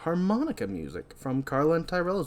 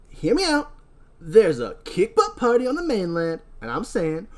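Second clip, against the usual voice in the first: stoner bro pitch. Acted. Titus pitches a party.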